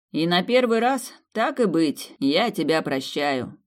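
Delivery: mock solemn. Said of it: "торжественно иронично возвестил он".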